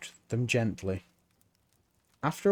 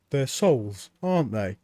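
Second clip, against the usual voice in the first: put-on young Mort. A narrator's reading. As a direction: play the puzzled young apprentice. Mort asks.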